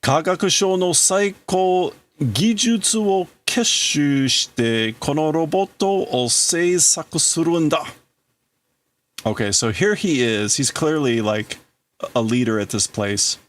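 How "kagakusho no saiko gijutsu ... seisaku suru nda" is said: lightly voiced father, raised pitch, vowing; a grieving scientist swearing to rebuild his son. Father vowing to his dead son, raised pitch, earnest.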